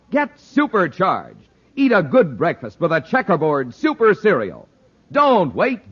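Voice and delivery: put-on upbeat sales pitch to the kids; ad read. Announcer urging young listeners to buy cereal, upbeat. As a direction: sell the cereal with a grin.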